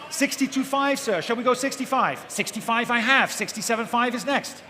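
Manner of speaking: brisk rhythmic auction calling; auctioneer. Real, not acted. Live auction calling bids.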